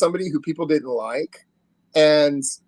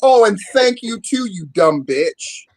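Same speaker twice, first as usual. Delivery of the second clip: mock sweet then snide; 4 semitones higher, 3 dB louder than usual.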